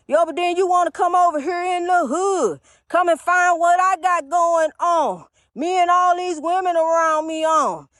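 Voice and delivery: mock shout. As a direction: belt it out like a street preacher gone off. Mock rant about the hood.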